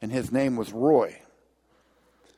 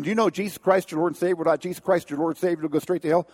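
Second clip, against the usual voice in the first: higher, urgent preaching rush; motor mouthing; 4 semitones higher, faster than usual. Retold or imitated. Wounded man preaching hard to the young man. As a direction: preach like there's no time left. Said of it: "I was motor mouthing".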